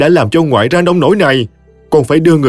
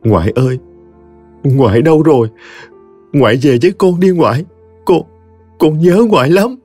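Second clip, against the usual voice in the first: choked sobbing; 5 semitones higher than usual. Acted. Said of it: "vừa khóc, vừa nói bằng giọng nghẹn ngào".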